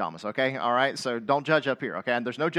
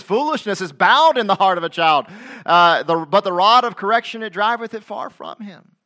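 louder, raised King James reading; scripture reading; 5 semitones higher, 7 dB louder than usual. Acted. Preacher reading King James verse to congregation, proclaiming.

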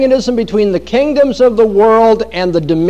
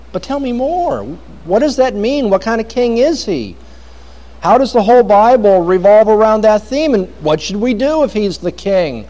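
raised, wondering voice of a puzzled listener; curious questioner; 4 semitones higher than usual. Retold or imitated. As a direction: ask like someone who wants more. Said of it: "there'll be people who say".

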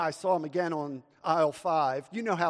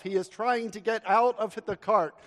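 ordinary delivery

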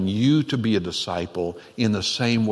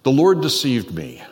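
mock testimony outburst; 4 semitones higher, 5 dB louder than usual. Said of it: "getting up and saying".

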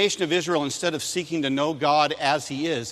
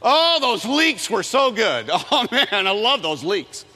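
mock longing; 6 semitones higher, 5 dB louder, slower than usual. Mocking the people's craving.

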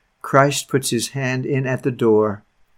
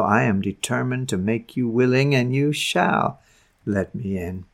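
softer, low and firm, fading at the end; Christ's gentle insistence; 3 semitones lower, 5 dB quieter than usual. Acted. Christ telling the sinner he must come in, soft and firm. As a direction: insist tenderly, almost under the breath.

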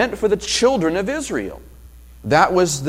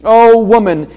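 emotional; 4 semitones higher, 9 dB louder than usual. Retold or imitated. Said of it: "notice the emotion here".

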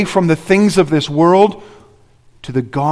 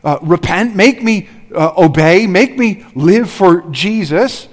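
mock lazy prayer; 4 semitones higher, 4 dB louder than usual. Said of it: "It's like we say".

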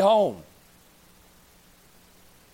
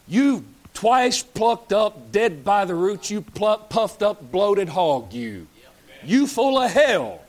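fiery preaching insult; 3 semitones higher, 3 dB louder, much slower than usual. Real, not acted. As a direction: hammer each insult slowly.

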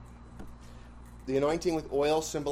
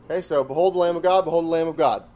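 louder, stressed "behold the Lamb of God" said twice; emphatic repeat; 2 semitones higher, 5 dB louder, faster than usual. Shown as a demonstration. Teaching the class what repetition means, said with emphasis. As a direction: hammer the phrase home by repeating it. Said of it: "emphasis, emphasis".

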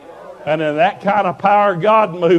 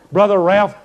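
retold jubilant call, louder and higher; victory shout; 4 semitones higher, 6 dB louder than usual. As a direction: call out his name in imitated triumph. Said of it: "She was shouting a victory".

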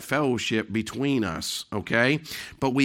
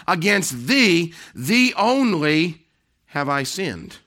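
slow drawn-out emphasis; 5 semitones higher, 5 dB louder, much slower than usual. Acted. Repeated scripture, drawn out.

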